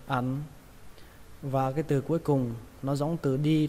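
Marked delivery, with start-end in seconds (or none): 0.1-0.4 "ăn" said with a Vietnamese huyền tone; low falling tone on "ăn". Shown as a demonstration. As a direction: let "ăn" fall like a grave-accented syllable. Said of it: "các bạn thêm dấu huyền".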